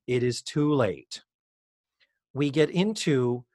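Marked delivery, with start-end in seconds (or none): 0.1-1.2 buzzer voice. Retold or imitated. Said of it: "After the buzzer says".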